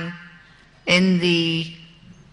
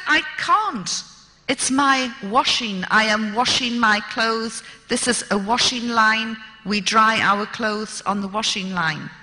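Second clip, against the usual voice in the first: indignant protest; 2 semitones higher than usual. Retold or imitated. Arguing with the prison governor.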